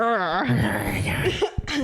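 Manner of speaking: breathy imitation of a kid's growl; whispered mock growl. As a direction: rasp out a growl under your breath. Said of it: "He was he's growling".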